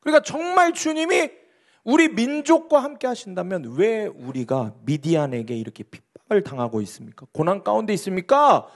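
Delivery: a touch of indignant questioning; arguing Gideon. Acted. Pastor voices Gideon questioning God, mildly indignant. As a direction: challenge God, mildly aggrieved. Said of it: "따지는 거예요".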